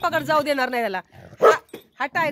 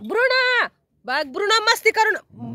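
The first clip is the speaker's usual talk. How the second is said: raised, high-pitched warning; scolding call; 6 semitones higher, 3 dB louder, slower than usual. Real, not acted. Telling Bruno to stop misbehaving, scolding call. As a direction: call the dog sharply to order.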